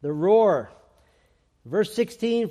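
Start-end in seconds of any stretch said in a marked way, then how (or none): 0.0-0.7 the roar, deep and loud like a lion; booming roar. Shown as a demonstration. Preacher booms the name to his church, loud. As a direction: boom the word roar out to the congregation. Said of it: "we'll call this one the roar".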